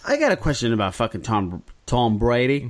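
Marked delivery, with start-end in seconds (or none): 1.9-2.7 botched attempt at a Boston accent; bad Boston accent. Host fumbling a question about Tom Brady, bad Boston accent. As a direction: try Boston and miss badly. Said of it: "That was the worst Boston accent".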